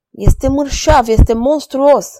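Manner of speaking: a hint of an outraged girl. A narrator's reading. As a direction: recoil in disgust, voice lifted. Gillette horrified at the king. (fată revoltată, vocea mai sus)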